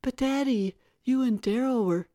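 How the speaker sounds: high, loud wheedling protest; pleading daughter. A narrator's reading. Tara protesting to her father, high pleading.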